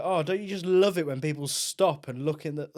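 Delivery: sweetly sarcastic, meant to be overheard; passive aggressive. Retold or imitated. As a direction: innocent tone hiding a dig. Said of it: "Ah, the, the passive aggressive".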